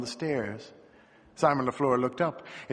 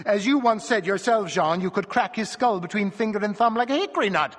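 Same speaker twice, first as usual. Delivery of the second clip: high, louder exclamation; animated jeering reminder; incredulous scoffing; 7 semitones higher, 4 dB louder than usual. A narrator's reading. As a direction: protest it with amused disbelief, voice up. Rider scoffs at her fear.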